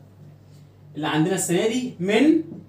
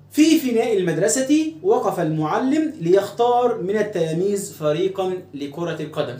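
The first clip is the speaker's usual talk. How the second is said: slow, measured classical Arabic reading; reading aloud. Shown as a demonstration. Teacher reads the story sentence to pupils, slow read-aloud. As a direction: read it out carefully with the vowel endings.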